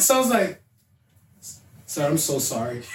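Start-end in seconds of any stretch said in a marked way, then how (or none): 1.9-2.8 meek apology. Retold or imitated. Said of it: "my best white voice".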